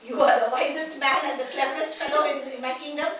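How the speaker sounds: loud royal declaration; the king concedes grandly; proclaimed surrender. Acted.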